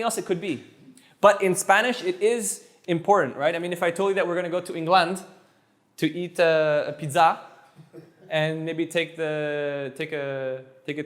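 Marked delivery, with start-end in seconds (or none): 4.8-5.2 England stressed on the last syllable, eng-LAND; England with the weight misplaced at the end; deliberately wrong stress. Shown as a demonstration. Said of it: "It sounds weird". 6.9-7.4 pizza stressed on the last syllable, peet-ZA; deliberately wrong stress. Shown as a demonstration. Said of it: "It sounds weird".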